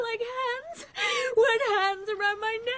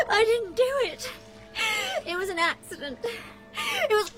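sobbing. Acted. Vera sobbing in panic.

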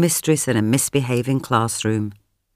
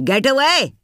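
barked; 11 semitones higher, 3 dB louder than usual. A narrator's reading. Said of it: "he barked".

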